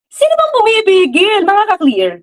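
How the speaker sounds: high rising taunt at the audience; challenging question. Real, not acted. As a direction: dare them to answer. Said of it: "Sige nga, tell me nga". (mapanghamong tanong, pataas ang tono)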